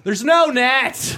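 high, slow, laughing yell; laughing high shout; gleeful shout. Retold or imitated. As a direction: shout it out with glee. Atheists shouting at walker.

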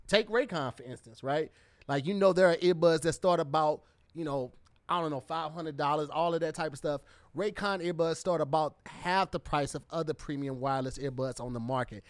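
upbeat sponsor read. Acted. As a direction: sell the earbuds, host style. Reads a sponsor ad.

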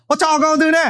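fast, clipped run-together line; sped up. Shown as a demonstration. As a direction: rattle it off quickly. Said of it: "if you speed it up".

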